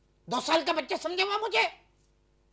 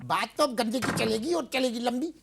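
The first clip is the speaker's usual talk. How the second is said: ordinary delivery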